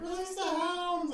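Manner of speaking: high, slow booming command; mock command. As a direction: bellow the order like a villain. Jericho calls for dogs.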